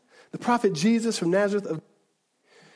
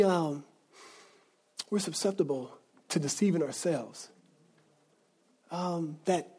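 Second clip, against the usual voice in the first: soft and sincere; 6 dB quieter than usual. Real, not acted. Earnest soft confession to congregation.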